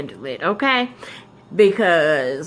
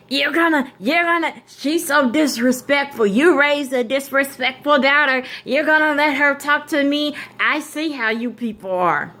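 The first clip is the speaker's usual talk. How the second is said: higher, huffy teacher complaint; a hammed-up offended teacher, higher; mock outraged teacher; 7 semitones higher than usual. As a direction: imitate her sputtering at Dad, pitched up. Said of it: "So she all like".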